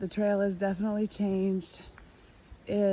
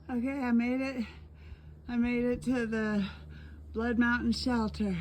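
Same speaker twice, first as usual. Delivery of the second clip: higher, proud arrival; triumphant; 4 semitones higher than usual. Real, not acted. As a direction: announce the win with relief. Reaching the shelter.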